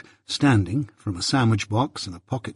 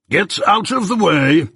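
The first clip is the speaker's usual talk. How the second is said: curt dismissal; 7 semitones higher, 4 dB louder than usual. A narrator's reading. Jaggers dismissing suitor.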